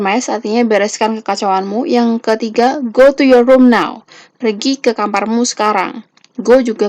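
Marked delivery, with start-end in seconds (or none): 2.8-4.0 slow, stern order, a bit louder; firm command. Shown as a demonstration. Teacher demoing a firm order to students, slow and stern. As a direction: lay down the law like a strict parent. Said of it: "diucapkan dengan intonasi yang lebih tinggi".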